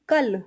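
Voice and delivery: "कल" with firm stress, Punjabi style; a bit forceful. Shown as a demonstration. Teacher showing the Punjabi word, "कल" said with some force. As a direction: press on "कल", leaning on the final ल. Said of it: "थोड़ा ज़ोर से बोलेंगे".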